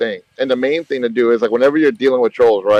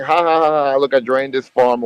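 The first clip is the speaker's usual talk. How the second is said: lightly imitated gloating laugh; spoken ha-ha of a taunting troll; mock laughing. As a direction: act out a troll's taunt, barely raised.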